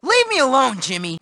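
low, falling-away brush-off; weary brush-off. Acted. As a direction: brush off the bully wearily. Nerd brushing off his bully.

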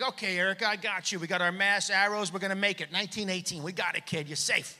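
calm her down like a steady dad; reassuring dad. Retold or imitated. Dad reassuring his daughter in the store, soft and steady.

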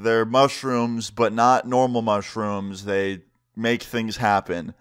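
slow, careful wording; measured, delicate explanation; careful explaining. Retold or imitated. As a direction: explain it slowly, choosing each word. Awkwardly explaining drugs to a guard.

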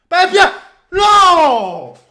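high, slow drawn-out no; anguished scream. Real, not acted. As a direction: howl in disbelief. Scream at a missed chance.

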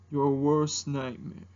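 low, slow mock-menacing dragon; Mushu. Dragon answering who are you, low menacing impersonation. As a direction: drag out the threat, deep and slow. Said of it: "doing an impersonation of Mushu".

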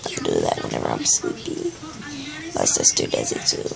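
soft tired whisper beside a sleeping sister; sleepy whisper. Real, not acted. Girl whispering so her scared sister can sleep. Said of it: "I'm talking really low".

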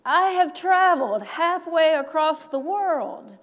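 lightly voiced weary traveler; eager seeker. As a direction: plead with a traveler's urgency. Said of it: "And she said to the man".

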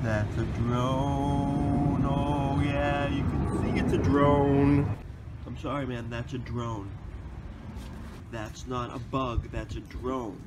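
quiet, slow amazement; hush, stunned by what you see; hushed awe. Real, not acted. Spotting a drone, hushed awe.

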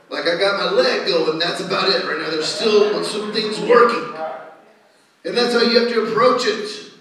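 full-force preaching. Real, not acted. Preacher urging church to see themselves as works in progress, emphatic. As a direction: press each declaration home to the congregation.

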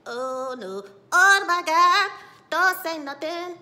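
loud, high exaggerated dread; mock panic. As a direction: blurt it out as hammed-up horror. Voicing June's panicked reaction.

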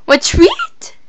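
high whisper, teasing the dog; whispered baby talk. Shown as a demonstration.

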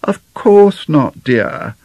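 high, slow, soothing wifely assurance; placid untruth. A narrator's reading. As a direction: reassure your husband with a placid fib. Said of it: "replied Missus McLeodlaw with placid untruth".

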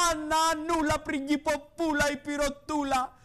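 mocking. Mocking nicknames, sing-song.

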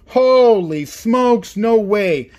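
loud, drawn-out exclamation; reeling from a lucky win; real amazed disbelief. Real, not acted. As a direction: stretch it out in happy shock. Still reeling from the rare pull.

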